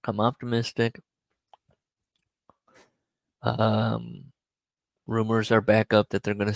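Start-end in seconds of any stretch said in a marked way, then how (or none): 0.1-1.0 words around crunched ice; crunching ice. Real, not acted. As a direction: mouth full of ice. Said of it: "Can you hear me crunching ice?".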